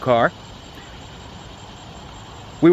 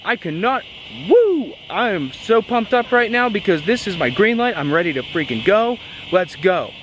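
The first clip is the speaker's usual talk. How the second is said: high, squealing burst of joy; inner excitement; 8 semitones higher than usual. Retold or imitated. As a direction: let it all out like a kid on a green light. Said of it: "my mind goes".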